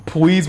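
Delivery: "Please" with a W in place of the L; baby-talk please. Retold or imitated. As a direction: say "Please" as a little kid's "pwease". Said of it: "with the W".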